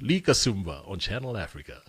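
radio ident picking up after a slip; voiceover voice. Shown as a demonstration. Guest correcting the host's name in the ident, voiceover voice. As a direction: finish the station tag like an announcer. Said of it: "Do it in your voiceover voice".

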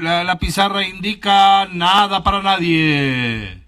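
mock sports commentary. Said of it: "estás narrando como fútbol".

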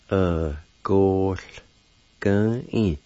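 "Uh, gosh, gun in" said as uh-goh-gun-een, syllable by syllable; Cherokee word. Shown as a demonstration. Teacher showing the word for perceive, carefully. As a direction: say "Uh, gosh, gun in" in separate beats. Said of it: "like this".

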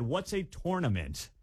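"tournament" as "TORE-nament"; slow question with "tournament" said "TOR-nament"; old pronunciation. Retold or imitated. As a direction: say the first syllable of "tournament" like "tore". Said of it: "I don't say tournament anymore".

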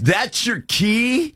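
slow, high incredulous question; surprised valet. Retold or imitated. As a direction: play the stunned valet, drawn out. Valet sees the screwdriver key.

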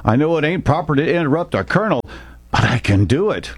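put-on young private bursting with his idea; excited blurt. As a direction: blurt it out before you lose your nerve. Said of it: "An excited Haynes blurted out".

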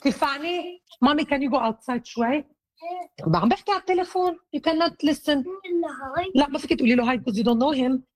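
quick, high aside to a little one. Real, not acted. Mother sends child out of room.

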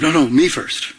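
insisting on going first; pushy selfish. Pretend. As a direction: claim the place in line for yourself. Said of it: "Instead of".

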